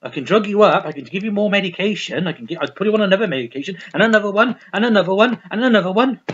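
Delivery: lightly voiced eager pill-pusher; imitating the psychologist. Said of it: "Or, or".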